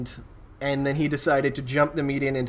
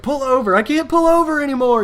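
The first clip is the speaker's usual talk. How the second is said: high, loud mock movie shouting; Super Troopers quote; 10 semitones higher, 7 dB louder than usual. Teller quoting a Super Troopers chase, mock shout. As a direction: ham up the movie scene. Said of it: "that one scene from, like, Super Troopers".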